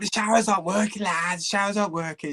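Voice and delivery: high, fast mock Scouse accent; Scouse accent imitation. Teammate complaining about the broken showers, in a high Scouse accent. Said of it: "Scouse accent".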